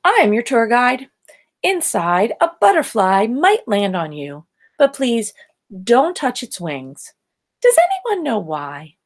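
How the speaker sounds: a lightly voiced tour guide, a touch brisk. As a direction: address the class like a guide. Tour guide addresses the class.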